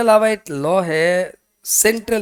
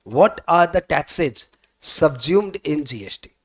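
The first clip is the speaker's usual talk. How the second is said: very slow, word by word exam question; exam question read; much slower than usual. Shown as a demonstration. Teacher reading the exam question aloud to students, slowly. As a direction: read What are the taxes subsumed in GST slowly like a question paper. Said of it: "जो exam में सबसे basic पूछता है वो ये है".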